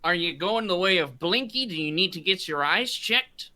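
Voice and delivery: captain's voice. Acted. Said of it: "And he goes".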